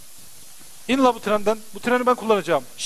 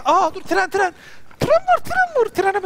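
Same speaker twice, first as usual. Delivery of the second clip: very high, loud squeal of tren var; excited shriek; 12 semitones higher, 4 dB louder, slower than usual. Real, not acted. Gamer chasing the departing train, high excited shriek. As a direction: screech it in a panic of excitement.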